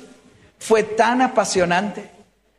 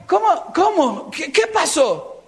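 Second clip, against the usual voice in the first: mock startled; 4 semitones higher, slower than usual. Playing confused father at door.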